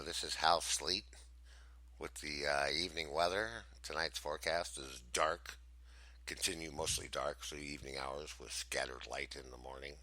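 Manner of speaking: low, measured evening forecast read; weatherman voice. Shown as a demonstration. Co-host trying out a character voice, mock weatherman. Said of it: "Is that the voice you're looking for".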